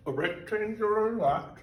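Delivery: talking with ice in mouth; words around a chunk of ice. Real, not acted. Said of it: "sorry, I got ice in my mouth".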